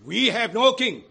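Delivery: loud defiant crowd shout; shouted answer. Acted. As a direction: fling it at Pilate. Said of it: "The chief priests answered".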